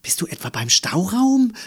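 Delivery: high, loud suspicious question; calling out. A narrator's reading. Mama checking on her daughter upstairs, calling out. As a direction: call up, ending on a high note. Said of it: "rief nun Mama".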